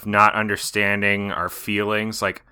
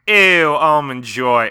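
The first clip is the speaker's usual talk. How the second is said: slow, louder disgusted ew; 4 semitones higher, 6 dB louder, much slower than usual. Retold or imitated. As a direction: recoil at the candy. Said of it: "she was like".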